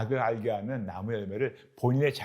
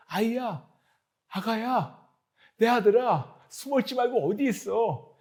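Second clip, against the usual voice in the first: earnest pleading parent; 8 semitones higher than usual. Acted. A loving father calling for his hiding child, pleading. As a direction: beg a lost child to come out. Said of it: "부모가 잃어버린 아이를 찾는 간절한 목소리".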